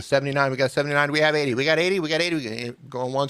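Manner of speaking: rising auctioneer patter, building up. Pretend. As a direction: count it off like an auctioneer closing the bid. Counting up like an auction.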